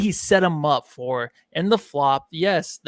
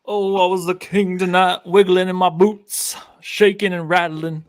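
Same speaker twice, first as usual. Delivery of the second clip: a singer's voice; 2 semitones higher, 3 dB louder, slower than usual. Acted. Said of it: "I'm not gonna do an accent the whole time".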